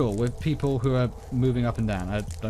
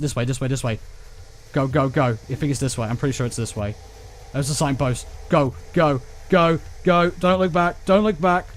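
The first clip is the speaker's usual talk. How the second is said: being chased; 2 semitones higher than usual. Real, not acted. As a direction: urge yourself on while fleeing. Running from the monster.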